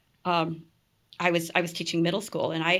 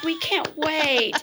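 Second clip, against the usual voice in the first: eager nurses; 9 semitones higher, 4 dB louder, much slower than usual. Retold or imitated. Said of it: "they're like".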